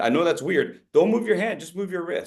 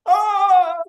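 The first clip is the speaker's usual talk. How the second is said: high, excited mock speaker voice; mock pompous presenter, much higher; overeager know-it-all; 12 semitones higher, 4 dB louder, slower than usual. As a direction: ham up an eager speaker bursting to talk. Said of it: "what do I call this gesture when you're like".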